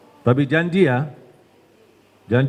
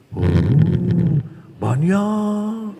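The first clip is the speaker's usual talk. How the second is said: Satan's whisper; much slower than usual. Acted. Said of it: "langsung dibisikin".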